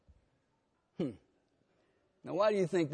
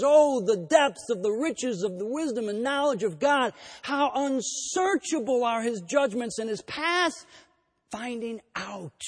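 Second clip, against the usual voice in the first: ringing, raised exclamation of awe; 5 semitones higher than usual. Retold or imitated. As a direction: proclaim it as a burst of praise. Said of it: "he breaks out into this interjection".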